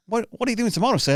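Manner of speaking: high, lightly voiced comic zinger; mock polite put-down. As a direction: deliver it as a sly, polite put-down.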